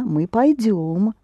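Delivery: slow "пойдём", accented on final "дём"; stress on the ending. Shown as a demonstration. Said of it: "Accent the ending again".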